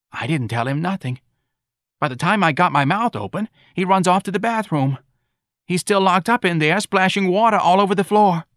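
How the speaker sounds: high, animated complaining voice; aggrieved mother. Acted. Mrs. Riley recounting her son's insolence, aggrieved. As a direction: build the tale into an indignant lament.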